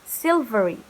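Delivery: Silvery, S light and V buzzing; soft S, bold V. Shown as a demonstration. Teacher correcting the S in Silvery.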